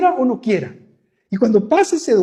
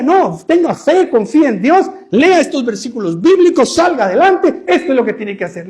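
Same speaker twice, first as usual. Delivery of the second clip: mock pastoral advice; 3 semitones higher, 4 dB louder than usual. Pastor lecturing a suffering person, loud mock advice. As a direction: rattle off the pat pastoral recipe.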